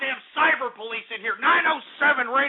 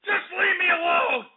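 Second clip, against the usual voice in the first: exasperated shout; 4 semitones higher than usual. Real, not acted. Begging trolls to stop.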